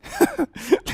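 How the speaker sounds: brief high-pitched chuckle; short laugh. Real, not acted. Preacher amused by his own acting, short laugh. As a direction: let out a quick high laugh.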